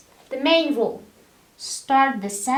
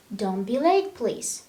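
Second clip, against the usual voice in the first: polite request. Shown as a demonstration. Teacher contrasts a polite request with a rude order. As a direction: ask it kindly. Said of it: "Let, let's see the difference".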